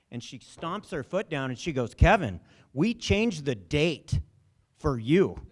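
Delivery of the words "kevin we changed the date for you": exasperated scolding. Retold or imitated. She stomps her foot, upset.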